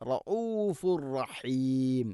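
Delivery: റഊഫുർ slow with a heavy റ. Shown as a demonstration. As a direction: draw out റഊഫുർ with a full റ. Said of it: "റായിനെ കനപ്പിക്കണം". (റ കനപ്പിച്ച് റഊഫുർ)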